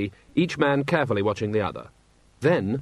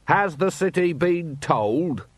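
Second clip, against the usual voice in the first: inquiring; 6 semitones higher, slower than usual. A narrator's reading. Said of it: "said the inquiring voice".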